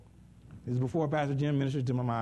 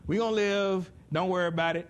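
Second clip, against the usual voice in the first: laughing reassurance; 4 semitones higher, 3 dB louder than usual. Retold or imitated. God reassuring Paul laughing.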